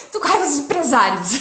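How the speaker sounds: high, loud, amused outburst; mock outrage breaking into laughter; laughing retold anger. Woman retelling her message to friends, amused mock anger.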